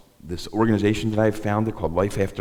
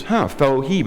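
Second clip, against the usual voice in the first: put-on old Jewish guy; 7 semitones higher, 5 dB louder than usual. Recovery friend greeting him at group, lightly voiced wry old man. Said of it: "he comes up to me and goes".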